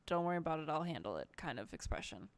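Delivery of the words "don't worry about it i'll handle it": low, gently reassuring voice; gentle reassurance. Acted. Player voices her character's knowing look, gently reassuring. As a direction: reassure softly, dropping in pitch. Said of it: "it's a gentle, like".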